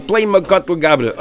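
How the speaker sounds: a hint of a dying man, slow and fading; lightly voiced dying man, slowing; dying man's words. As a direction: let the repeat sink, drawn out. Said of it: "the words were coming out of his mouth as he was dying".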